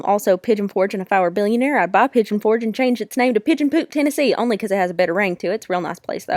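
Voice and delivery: lightly put-on Southern country accent; Kentucky McCare. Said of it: "talking in these funny accents".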